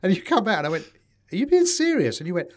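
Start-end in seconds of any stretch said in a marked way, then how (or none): 1.3-2.2 much higher and louder disbelief; can't believe what he's hearing; shocked disbelieving question, pitched way up; incredulous. Retold or imitated. Retold disbelief at friend.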